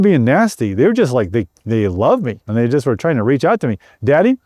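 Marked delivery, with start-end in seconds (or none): 4.0-4.4 put-on pleading children. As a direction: beg Daddy to stay like a small child. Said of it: "They're pleading with me".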